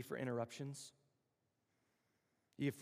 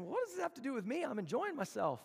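casual Jesus; 9 semitones higher than usual. Retold or imitated. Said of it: "this is my translation".

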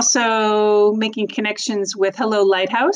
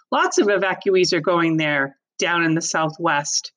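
strict father voice; 2 semitones higher than usual. Acted. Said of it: "in one of his strictest voices".

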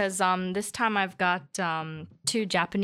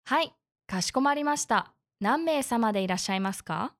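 customer service voice. Acted. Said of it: "I love your beautiful N H K Japanese".

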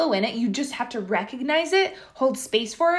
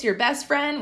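voice cracking; 2 semitones higher than usual. Real, not acted. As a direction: voice cracks on friend. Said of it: "wow, my voice just cracked".

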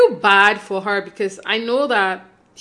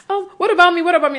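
higher, louder mock whine of a cast member craving attention; a mock petulant "what about me", higher and louder; mock whiny Lisa; 8 semitones higher, 4 dB louder, faster than usual. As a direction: whine it like a pushy castmate wanting the spotlight. Mocking Lisa inserting herself.

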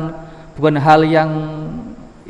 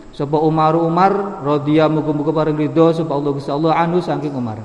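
kitab gloss reading; 2 semitones higher than usual. Acted. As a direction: chant the gloss phrase by phrase. Reads Arabic text with Javanese gloss.

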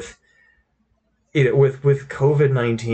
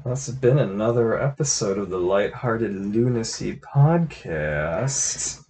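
radio voice; slower than usual. Pretend. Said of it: "You like my new radio voice?".

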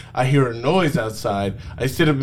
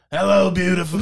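failed Shrek attempt; 6 semitones higher, faster than usual. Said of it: "I'm trying to get, like, a Shrek voice".

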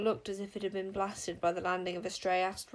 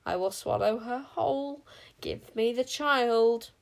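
slow guttural threat, growing louder; grating king witch; 3 semitones higher, 4 dB louder than usual. A narrator's reading. King witch threatening to swallow Wish, grating. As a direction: build to a loud, dragged-out demand. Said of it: "a harsh and grating and guttural noise".

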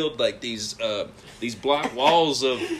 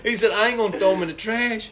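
laughing; 6 semitones higher than usual. Real, not acted. Laughing through the story.

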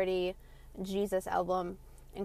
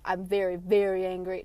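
mock overdramatic complainer; 4 dB louder than usual. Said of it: "No, you're just angry".

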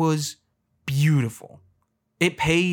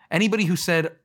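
ordinary talk, nothing marked

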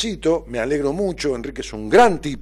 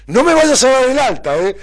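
pitched-up, louder imitation of a pleading patient; high mock patient; 13 semitones higher, 9 dB louder than usual. Patient begging her therapist not to discharge her, high mock plea. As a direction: squeak it out like an anxious patient begging.

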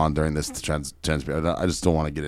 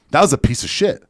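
high and louder, buzzing with excitement; shocked excitement; 6 semitones higher, 5 dB louder than usual. Retold or imitated. Friend praising the sale, high and louder excited. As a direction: gush like a thrilled friend. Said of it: "he was shocked".

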